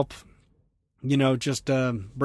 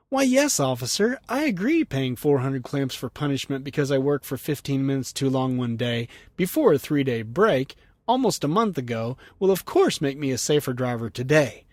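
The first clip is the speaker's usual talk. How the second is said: sarcastic rant. Acted. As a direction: play the overly obliging driver answering an officer. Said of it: "He rants".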